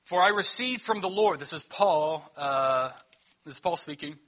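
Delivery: measured, solemn Bible reading; scripture reading. Acted. Pastor reading the Lord's Supper text to the church, solemn.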